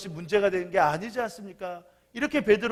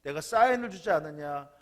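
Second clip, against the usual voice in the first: scolding. Retold or imitated. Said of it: "이제는 이 청년이었던 사람에게 화를 내요".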